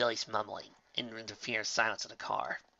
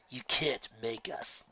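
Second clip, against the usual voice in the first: defiant; 5 dB quieter, slower than usual. Acted. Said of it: "said Frosty defiantly".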